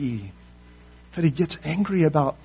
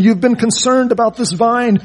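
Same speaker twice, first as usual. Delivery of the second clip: God's voice; 7 semitones higher, 9 dB louder than usual. Acted. God's statement to Jonah quoted.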